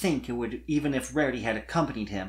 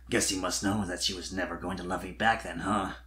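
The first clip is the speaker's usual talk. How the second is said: low, soft, heartbroken dragon; heartbroken confession; 6 semitones lower, 5 dB quieter than usual. Acted. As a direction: admit it quietly to the filly. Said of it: "he finally confessed".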